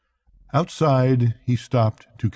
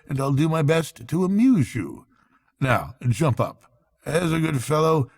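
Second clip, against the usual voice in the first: lightly raised, brisk and hearty friend; Rat's brisk cheery voice; 6 semitones higher than usual. A narrator's reading. Rat rousing Toad from bed, hearty and brisk. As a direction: coax a sulking friend out of bed.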